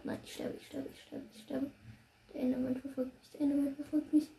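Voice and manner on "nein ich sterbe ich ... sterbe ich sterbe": panicked whisper. Real, not acted. Losing fight, dying.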